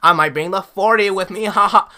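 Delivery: a hammed-up suburban kid faking slang, building to a laugh; mocking suburban kids. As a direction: parody a poser kid trying to sound cool. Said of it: "suburban kids trying to be like".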